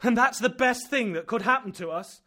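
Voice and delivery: loud and high, rapid at first; horrified, mocking the uncle's hope; frantic outburst. Axel in horror at eruption.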